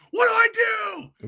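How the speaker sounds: high, slow, frantic cry; panicked shout. Acted. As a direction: yell it like a lost player on the field. Rudy panicking going into game.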